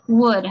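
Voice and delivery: "Would" as one syllable, silent l; model pronunciation. Shown as a demonstration. Teacher models the word for students, "Would" said as "wud". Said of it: "Nah, ini dibacanya would".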